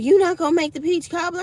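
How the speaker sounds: lightly voiced demanding sister; a hint of a bossy sister. Sister quoted demanding cobbler.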